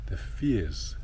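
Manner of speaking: breathy whispered words. Real, not acted. Guest answering the host about fears, whispering. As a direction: let the words drop to a whisper.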